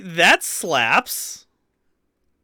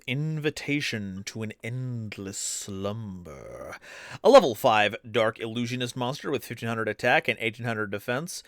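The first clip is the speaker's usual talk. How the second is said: anime villain; 5 semitones lower, 6 dB quieter than usual. Acted. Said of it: "if you don't read them like an anime villain".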